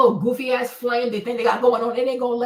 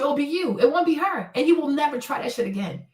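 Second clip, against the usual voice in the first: usual speaking voice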